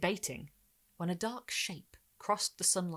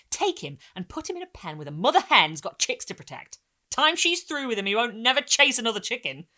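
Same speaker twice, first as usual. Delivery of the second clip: gruff stranger, gets louder at the end; stranger, matter-of-fact, rising louder; 5 semitones higher, 9 dB louder than usual. Acted. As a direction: lean in and spell out the cruel cure. Stranger voiced by the narrator.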